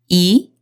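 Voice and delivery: 이 climbing from bottom to top; second tone. Shown as a demonstration. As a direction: slide 이 up from a low start. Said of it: "밑에서 위로 올라가는 이성으로".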